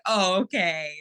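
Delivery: drawn-out, sarcastic mock agreement; slow, teasing put-on acceptance. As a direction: stretch it out with playful sarcasm. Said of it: "use a lot of sarcasm and humor".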